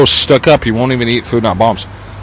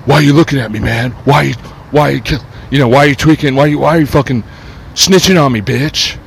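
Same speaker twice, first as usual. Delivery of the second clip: higher-pitched mocking tweaker imitation; confrontational tweaker; 4 semitones higher than usual. Mimicking tweakers accusing him of snitching, confrontational. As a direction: challenge him, stumbling over repeated "why you". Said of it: "so proud of being a tweaker".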